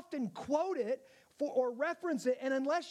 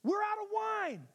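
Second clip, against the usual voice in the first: higher, baffled retort; mock puzzled; 8 semitones higher than usual. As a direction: play Mary's confusion with a raised voice. Mocks Mary's puzzled reply.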